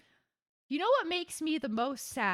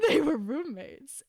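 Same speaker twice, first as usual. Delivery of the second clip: roommates through a laugh; laughing tease. Real, not acted. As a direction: say it laughing, winking at the joke. Ironic shipping joke.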